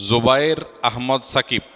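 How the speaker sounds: "Zobayer Ahmad Shakib" spaced out word by word. Real, not acted. Groom's name repeated more slowly.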